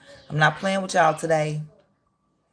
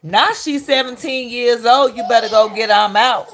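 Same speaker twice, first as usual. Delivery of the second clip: mocking repeat; 4 semitones higher, 4 dB louder than usual. Mocking the father's quoted words.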